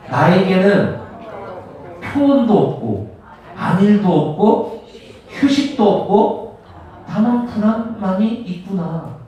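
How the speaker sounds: slow, measured verse reading; scripture read-aloud. Acted. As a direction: lead the congregation phrase by phrase, pausing between. Leads congregation reading verse aloud. (천천히 끊어 읽는 성경 낭독)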